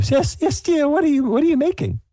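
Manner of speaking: high, quick granny voice; sweet old lady. Acted. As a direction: hurry over as a kindly old woman. Sue voiced by game master.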